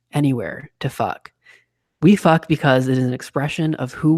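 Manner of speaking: sultry, sexy voiceover narration. Shown as a demonstration. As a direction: purr it out like a seductive narrator. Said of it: "I'll try to do my sexy voice".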